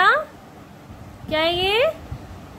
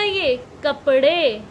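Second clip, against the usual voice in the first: ये कपड़े said slowly, कपड़े drawn out; slow down on ये कपड़े to show the plural; stretched plural; slower than usual. Shown as a demonstration. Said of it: "एक था तो ये कपड़ा था". (ये कपड़े धीरे खींचकर बोलें)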